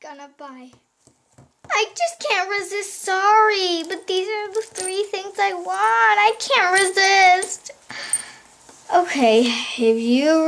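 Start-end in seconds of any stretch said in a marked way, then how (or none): 1.7-7.7 pleading excuse. Pretend. Doll cannot resist buying toys.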